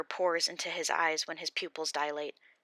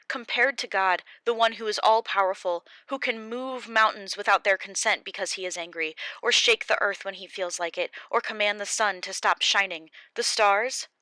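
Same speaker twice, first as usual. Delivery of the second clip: louder, higher, defiant challenge to God's power; indignant Job; 4 semitones higher, 8 dB louder than usual. Acted. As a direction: throw the question back at them.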